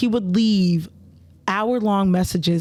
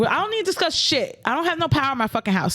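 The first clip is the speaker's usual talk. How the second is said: angry retort; 6 semitones higher, faster than usual. Retold or imitated. Angry neighbour retort retold.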